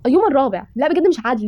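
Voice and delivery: high-pitched moan of protest; whining complaint. Real, not acted. Player who had no time to enjoy it, whining. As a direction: whine at being cheated of fun. Complains after losing a round.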